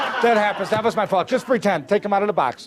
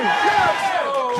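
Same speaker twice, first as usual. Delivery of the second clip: mock cheer; 5 semitones higher than usual. Answers own rally call.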